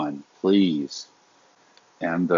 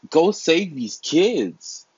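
urgent plea; 8 semitones higher, much slower than usual. Real, not acted. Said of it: "pleading with police".

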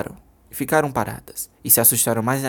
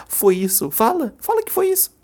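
high, rising angry demand; furious daughter demanding an answer; 12 semitones higher than usual. Acted. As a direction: push her to say it. Júlia demands confession.

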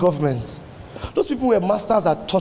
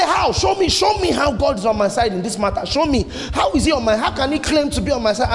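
rapid-fire challenge, a touch raised; mock ranting; 3 semitones higher than usual. Preacher acts out Esau's bitter response to God, mock ranting. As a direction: rant it out like someone demanding proof. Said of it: "go off ranting and crying".

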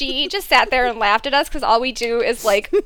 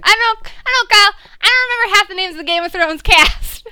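defensive; 7 semitones higher, faster than usual. Retold or imitated. Defending herself against Kyle's scolding.

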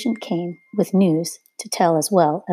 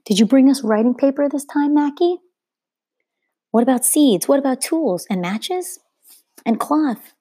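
villager calling out; 8 semitones higher than usual. A narrator's reading. Villager calls out questions.

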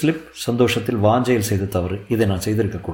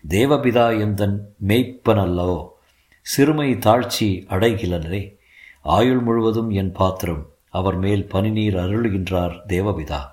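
measured recital of a devotional verse; hymn recitation; slower than usual. A narrator's reading. Father recalling his school hymn, measured recitation. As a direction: recite it slowly like a school prayer.

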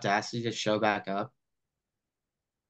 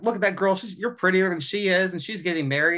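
a light nagging mom voice, pitched up; mock the nagging mother, slightly higher; 6 semitones higher than usual. Podcaster mocking Julia's nagging mom, pitched up. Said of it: "Julia's mom makes the comment".

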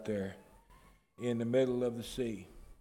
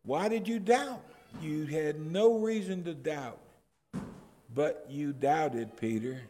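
upset Jesus. Acted. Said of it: "Jesus is upset".

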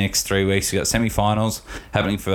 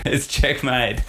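amused, slower, laughing it out; 4 semitones higher, slower than usual. Real, not acted. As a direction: chuckle the verdict. Laughing about the sledge.

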